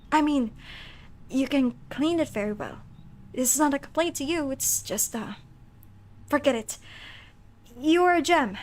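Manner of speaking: lightly voiced flustered nerd; halting, slightly awkward nerd delivery. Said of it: "like, a flustered nerd voice".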